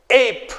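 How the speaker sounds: ape with a long ay sound. Shown as a demonstration. Teacher modelling the long a for pupils. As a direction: stretch the ay in ape. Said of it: "A will sound like A".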